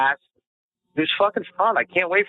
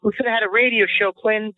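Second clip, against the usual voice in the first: higher, quicker wail of regret; mock melodrama; 7 semitones higher than usual. To Quinn, mourning the lost radio show in hammed-up despair. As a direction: lament like a washed-up dreamer.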